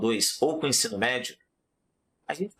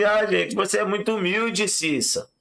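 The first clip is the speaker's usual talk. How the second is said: mocking king; 7 semitones higher than usual.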